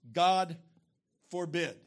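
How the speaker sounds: GOD hit hard and loud, then a pause; forceful, declaimed "God ... forbid"; emphatic exclamation. Acted. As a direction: punch "God", set "forbid" apart. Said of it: "it's so emphatic".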